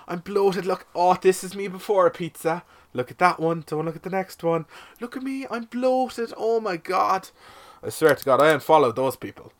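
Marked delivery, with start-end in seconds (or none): 0.1-7.3 high, drawn-out whiny show-off; imitating an attention-seeking Instagrammer; mock Instagram influencer. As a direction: put on a higher-pitched mocking voice of an online poser. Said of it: "You're one on Instagram. She's like".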